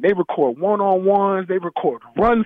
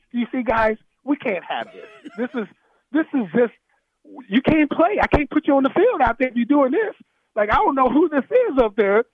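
scolding coach; 6 semitones higher than usual. Retold or imitated. Coach to players in film session, mock scolding. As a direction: chew the team out, half mock.

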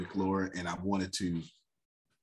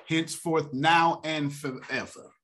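put-on old church folks; 5 semitones higher than usual. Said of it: "how the old folks say it in church".

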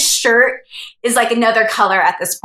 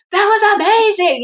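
awed excitement; 12 semitones higher than usual. Retold or imitated. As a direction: imitate the friend stunned with delight. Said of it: "He's like".

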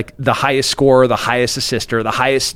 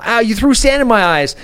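put-on higher whiny child's complaint; hurt kid; 9 semitones higher than usual. Small kid complaining to his parent about sand. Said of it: "my kid's like".

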